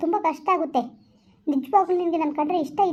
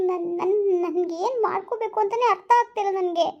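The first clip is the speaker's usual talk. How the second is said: crying; 2 semitones higher than usual. Acted. Upset girlfriend breaks down.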